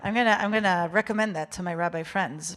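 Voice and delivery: usual speaking voice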